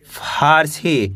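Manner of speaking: slow teacher blending of फारसी. Shown as a demonstration. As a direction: stretch फारसी out slowly, sound by sound. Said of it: "कैसे पढ़ेंगे?".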